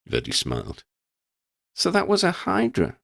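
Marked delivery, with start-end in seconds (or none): 1.8-3.0 put-on much higher young voice, wondering; Lydia asking. A narrator's reading. Lydia asks Verdi about the monster, wondering. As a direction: ask in wide-eyed wonder.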